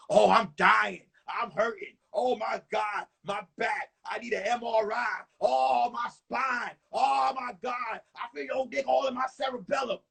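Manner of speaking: hammed-up wailing, drawn-out words; mocking imitation of a lover's moans; mock sex cries. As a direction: imitate overdone cries of agonized pleasure. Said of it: "you didn't make those sounds".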